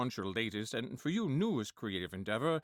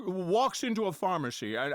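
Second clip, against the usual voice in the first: Jimmy Stewart impression; 4 semitones higher, 3 dB louder than usual. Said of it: "Jimmy Stewart already talking".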